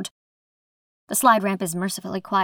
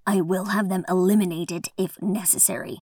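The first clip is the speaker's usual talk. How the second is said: cold. Acted. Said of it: "The first voice is cold".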